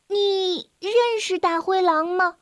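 puzzled question. A narrator's reading. 卡门 asks Little Red curiously, lightly puzzled. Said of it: "卡门奇怪地问".

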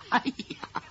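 breathy, unvoiced laugh on the words; half-whispered giggle; amused chuckle. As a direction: snort out a laugh at a clever trick. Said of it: "噗呲儿笑了".

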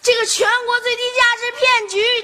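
high mock public shout; re-enacted yelling. Child showing the family the threat, high re-enacted yell. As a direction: act out hollering to a crowd. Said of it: "我就嚷嚷".

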